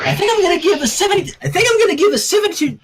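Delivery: fast, laughing through the words; barely holding back giggles; giggly rushed line; giggling. A narrator's reading.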